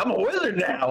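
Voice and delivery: high-pitched mock self-discovery; mock excitement. Joking about reading too much into a wizard dream, mock excitement. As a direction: blurt it as a silly overclaim. Imagined naive claim, mocked.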